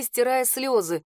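plain reading voice

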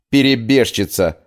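a spat-out angry insult; spat angrily. Acted. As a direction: fling the word like an accusation. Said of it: "зло выплюнул Уинтон".

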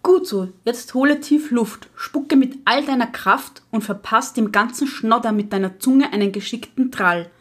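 a lightly voiced stern old witch lecturing; strict witch teacher. (Lehrerinnenhexe, leicht gespielt, streng belehrend)

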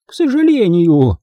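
high-pitched, disapproving retort; Grandma Bone, curt. A narrator's reading. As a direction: add it sourly in a high voice. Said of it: "отрезала бабушка Бон".

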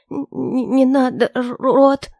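заикается от страха, громче; запинается, дрожа всем голосом; испуганное заикание. Acted. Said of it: "Опять начала заикаться". (дрожащая от страха девушка заикается о Роте: громкое испуганное заикание)

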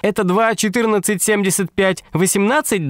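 допрашивающая дама. A narrator's reading. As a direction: interrogate him in a thin high voice. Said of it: "допрошивала она". (дама допрашивает, высоким голосом)

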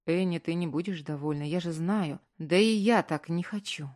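ordinary delivery

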